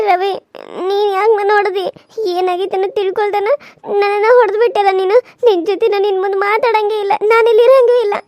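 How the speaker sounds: tearful angry shout. Acted. Wife screams at her husband that she is leaving, through tears.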